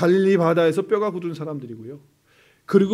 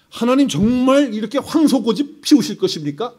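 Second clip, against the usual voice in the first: persuading God; 2 semitones higher, 4 dB louder than usual. Retold or imitated. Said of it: "하나님을 설득하는 기도를 해요".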